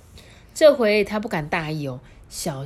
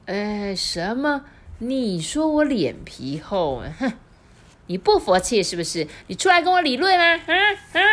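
rising to a high, loud shriek; old wife losing her temper; furious old wife; 5 semitones higher, 4 dB louder than usual. Acted. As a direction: explode in jealous rage. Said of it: "周婆气急败坏地说".

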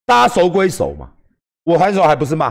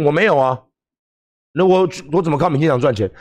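whiny reply; 3 semitones lower than usual. Retold or imitated. His whiny reply to the heckler.

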